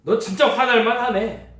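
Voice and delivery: high, loud and emphatic sympathy; emphatic validation. Retold or imitated. Preacher voicing a friend who sides fully with an angry person. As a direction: throw your whole heart behind agreeing.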